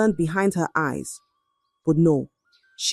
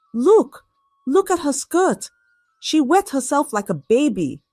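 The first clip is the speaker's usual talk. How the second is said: mocking girl; 7 semitones higher than usual. Girl points and mocks.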